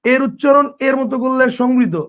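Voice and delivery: slow, careful teacher's repeat; measured slow classroom recap. Shown as a demonstration. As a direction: spell out the rule slowly for students. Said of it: "আবার বলছি".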